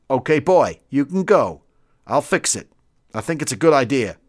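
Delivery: lightly voiced American colonel granting a request; a hint of an obliging senior officer; decisive colonel, mildly put on; American colonel, agreeable.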